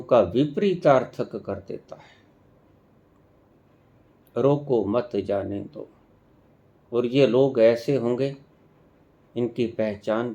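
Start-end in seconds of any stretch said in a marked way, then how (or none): 4.4-5.9 रोको मत जाने दो run together evenly, without a break; unpunctuated रोको मत जाने दो, no word set apart; no pauses. Shown as a demonstration. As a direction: say रोको मत जाने दो low and level in one go. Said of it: "ऐसे बोला जाएगा तो इसको कोई अर्थ नहीं".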